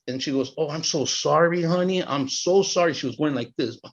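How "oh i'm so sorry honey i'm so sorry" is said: sympathetic interviewer. Retold or imitated. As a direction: play the apologetic interviewer, lightly. Interviewer's pity acted out.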